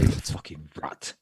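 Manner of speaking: slow, theatrical stage delivery of "You fucking rat"; thespian. Retold or imitated. Mate teasing his friend, slow theatrical thespian voice. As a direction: ham it up like a stage actor. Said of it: "You say it like a thespian".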